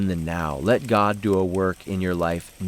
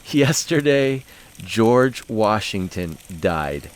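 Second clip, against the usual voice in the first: put-on solemn little girl; slower than usual. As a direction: drag it out like a grave little girl. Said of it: "was articulated by saying".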